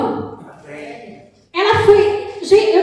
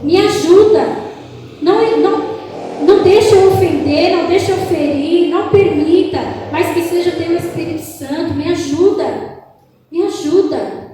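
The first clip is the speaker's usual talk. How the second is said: fervent prayer. Shown as a demonstration. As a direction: pray it urgently, asking for help. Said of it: "E fala". (oração fervorosa de súplica)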